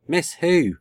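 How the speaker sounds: high, vague and far away; dreamy. A narrator's reading. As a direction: ask as if half asleep.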